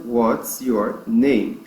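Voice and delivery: slow, separated words for learners; pronunciation demo. Shown as a demonstration. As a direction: say each word slowly and apart. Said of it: "E a pronúncia é". (pronúncia didática, bem devagar)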